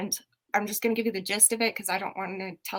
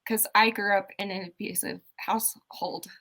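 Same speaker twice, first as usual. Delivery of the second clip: stuttering; 4 dB louder than usual. Real, not acted. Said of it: "I'm really stuttery today".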